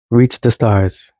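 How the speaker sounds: slow, deliberate reach the stars; slow emphatic repeat. Acted. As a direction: let it sink in as a final urging. Urging younger brothers and sisters on.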